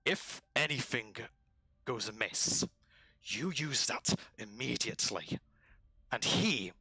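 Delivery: lightly rough lizard giving orders; a hint of rasping creature, emphatic; lizard commander. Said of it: "The lizard goes over to one of the guards".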